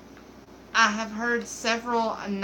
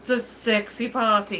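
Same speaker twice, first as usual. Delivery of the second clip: louder, half-hearted British cartoon impression; Stewie British accent; 5 dB louder than usual. Streamer retrying the catchphrase, weak British Stewie voice. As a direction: try a bad British accent, a bit punched. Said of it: "That was my Stewie British accent".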